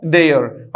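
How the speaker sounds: देयर with an open "ay" and a falling tune; देयर said as "day-er"; देयर with a silent final r; correct pronunciation. Shown as a demonstration. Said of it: "क्या होगा बोलो".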